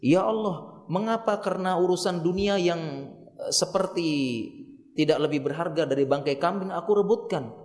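acted plea of distress; pleading to God. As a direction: pour out a troubled complaint to God. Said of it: "Mengadu kepada Allah".

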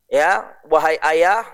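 drawn-out, very slow reply to father; slow pleading son. Acted. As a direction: speak each phrase slowly and earnestly. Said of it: "Maka Salman mengatakan". (anak menjawab ayah dengan sangat pelan)

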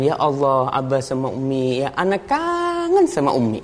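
a daughter's longing cry, lightly acted; lightly voiced daughter. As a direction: pitch climbing sharply on the longing. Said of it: "Sang anak mengatakan".

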